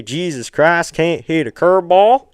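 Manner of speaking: quick mock Southern drawl on the movie line; southern accent. Quoting a movie line to chat, in a Southern accent. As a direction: toss off the quote in a hammed-up Southern accent. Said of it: "You gotta say it with a southern accent".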